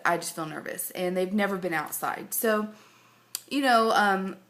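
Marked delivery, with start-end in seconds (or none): 3.5-4.4 mouth full. Real, not acted. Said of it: "I have something in my mouth".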